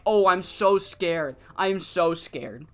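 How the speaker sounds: slow, sarcastic mock fear; mock scared. Shiori mocking Lady Lotus's threat, slow sarcastic fake fear. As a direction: drag it out like you're not scared at all. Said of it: "And Shiori's like".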